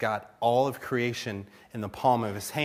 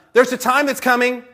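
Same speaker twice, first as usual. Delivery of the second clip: higher, louder proclamation; announcing what is coming; 10 semitones higher, 7 dB louder than usual. Acted. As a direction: foretell it boldly, pitched up. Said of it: "I imagine that as he's saying it".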